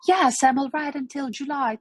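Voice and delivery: whispered dialogue answer; whispered line. Shown as a demonstration.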